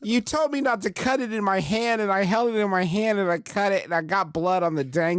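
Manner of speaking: high, hammy whining cook; french chef. Pretend. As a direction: whine like a clumsy chef. Clumsy French cook voiced.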